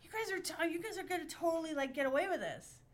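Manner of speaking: high, loud, giggling; laughing mock hope. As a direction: gush through laughter. Mock hopeful inner voice laughing.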